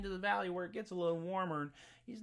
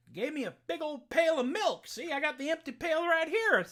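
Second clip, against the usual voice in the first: put-on higher, louder, flustered country boy; simple Jack; 9 semitones higher, 5 dB louder than usual. Jack explaining to the sheriff's daughter, flustered and higher. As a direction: protest it like a guileless boy caught out. Jack's voice in told tale.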